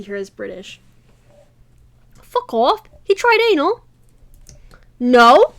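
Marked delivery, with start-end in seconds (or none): 2.2-3.8 much higher and louder, scandalized; the friend shrieks in scandalized delight; shocked squeal. Acted. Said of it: "Lavina was agog". 5.0-5.5 emphatic denial. Acted. Hallie denies, embarrassed.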